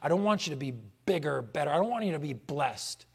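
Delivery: Satan. Acted. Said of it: "Satan says".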